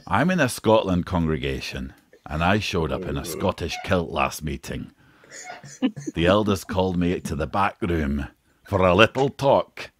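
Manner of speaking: reading aloud in a Scottish accent. Shown as a demonstration. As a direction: give the comment a Scottish lilt. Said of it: "try and say this in a Scottish accent".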